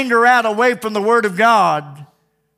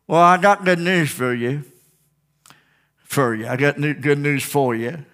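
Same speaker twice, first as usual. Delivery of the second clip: put-on hillbilly accent; 2 semitones lower than usual. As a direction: lean into a folksy hillbilly twang. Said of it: "Talking like a hillbilly now".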